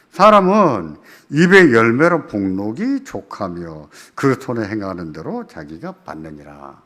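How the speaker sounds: solemn scripture recitation; scripture reading. Acted. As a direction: read the verse out deliberately from the pulpit. Reads scripture verse aloud.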